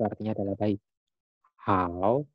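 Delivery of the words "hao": "Hao" in third tone, dipping then rising. Shown as a demonstration. Teacher shows the tone of the word for good, third-tone "Hao". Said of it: "nada ketiga".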